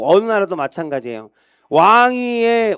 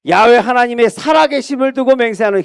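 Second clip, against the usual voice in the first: solemn oath; 5 semitones higher than usual. Acted. King David vows before Bathsheba and Nathan, solemn. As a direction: swear it before God.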